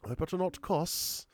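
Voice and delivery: high, slow put-on voice; put-on high mocking voice; mock prissy worry. Mocking someone afraid to cuss.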